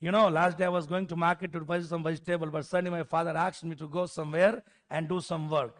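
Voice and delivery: slow, even English with neutral tone. Shown as a demonstration. Teacher showing the better way to speak English. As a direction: say it cleanly without regional tone. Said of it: "उसी को ऐसे बोलो".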